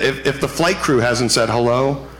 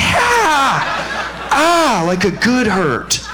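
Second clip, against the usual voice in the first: mock pained squeal; 12 semitones higher, much slower than usual. Passenger reacting to takeoff, high hammed-up squealing. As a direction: squeal like it hurts so good.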